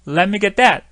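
loud, quick "Yeah, yeah, well, let me get that"; casual reply. Shown as a demonstration. Teacher echoing the guest's casual reply. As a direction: brush it off easily, offering to fetch it. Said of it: "이 well은 별 뜻이 없어요".

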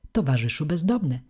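ceremonious, slightly lifted address; jubilee-speech voice. A narrator's reading. Jovial face addressing the poet, in jubilee-speech voice. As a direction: address him as at a celebration. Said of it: "jubileuszowym głosem".

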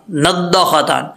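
"नद्दाख़तान" with short vowels before the ending; "नद्दाख़तान" said unstretched, as learners misread it; dropped alif. Shown as a demonstration. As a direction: repeat the mistake, "नद्दाख़तान" without the long aa. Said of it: "अलिफ है वो छोड़ देते हैं".

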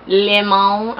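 Limon said the Spanish way, lee-MOHN. Real, not acted. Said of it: "or lemon in Spanish".

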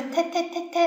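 "踢踢踢踢" rattled off quickly and evenly; four identical quick taps on "踢", none weighted; even, unstressed beats. Shown as a demonstration. Teacher shows what stress is not, quick even "踢踢踢踢". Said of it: "而不是".

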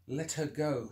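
a scared man putting on a hard voice; trying to sound tough. Acted. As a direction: fake the confidence you don't feel. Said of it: "trying to sound tough and confident".

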